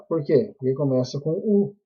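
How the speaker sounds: ordinary talk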